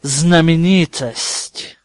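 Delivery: slow, loud mocking drawl; sneering. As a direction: stretch the word out with contempt. Snape mocks famous pupil.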